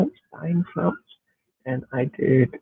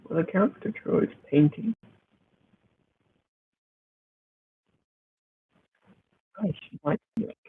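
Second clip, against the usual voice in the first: underwater; 3 semitones higher than usual. Real, not acted. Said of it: "why do I sound like I'm underwater?".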